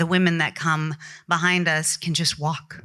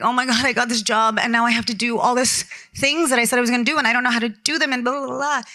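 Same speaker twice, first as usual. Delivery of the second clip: retold fretting; 5 semitones higher, faster than usual. Retells fretting to a mentor.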